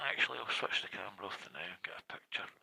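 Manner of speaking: hurried hushed aside; whispered aside. Real, not acted. Vlogger whispering before switching the camera off.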